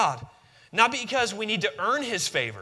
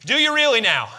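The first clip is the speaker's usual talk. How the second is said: laughing tease; 5 semitones higher, 6 dB louder than usual. Real, not acted. Teasing after shout.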